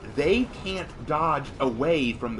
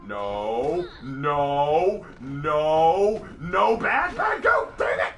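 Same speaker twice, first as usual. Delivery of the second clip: yelling; 4 dB louder, much slower than usual. Real, not acted. Yelling at game character.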